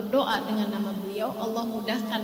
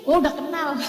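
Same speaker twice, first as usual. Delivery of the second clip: inner thought; 3 semitones higher, 6 dB louder than usual. Retold or imitated. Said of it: "saya jadi mikir".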